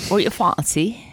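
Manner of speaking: 1 mock Scottish accent. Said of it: "That's horrible".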